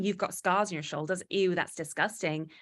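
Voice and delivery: understated imitation of someone grossed out, slowing on the ew; lightly acted revulsion; mild mock disgust. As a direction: pretend to be repulsed, without pushing it. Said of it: "they weren't saying".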